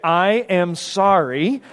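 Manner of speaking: slow, each word spaced out; deliberate, word-by-word apology; big written apology. Retold or imitated. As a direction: read it out slowly like a big handwritten sign. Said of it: "she wrote really big".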